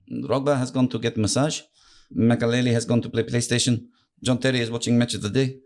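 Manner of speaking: lightly imitated foreign football manager; Mourinho. Manager explains where his players went, lightly accented impression. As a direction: account for each player in the boss's accent. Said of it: "They went".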